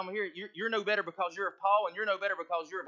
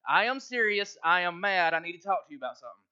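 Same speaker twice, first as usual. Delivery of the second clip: firm and emphatic, louder at the start; serious, mad declaration; 4 dB louder than usual. Shown as a demonstration. Pastor showing Kirk how to say he's mad, emphatic. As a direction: punch out the opening, then hurry the rest. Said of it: "really serious and you're really mad".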